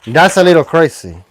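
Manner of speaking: mock Spanish accent. Host joking after his accent demo, Spanish accent. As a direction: keep up the put-on Spanish accent. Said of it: "You can do a Spanish accent".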